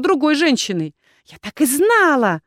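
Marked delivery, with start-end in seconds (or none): 1.2-2.4 higher-pitched, drawn-out angry outburst; hissed accusation. A narrator's reading. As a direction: hiss it out as a jealous accusation. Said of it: "шипела Валерита".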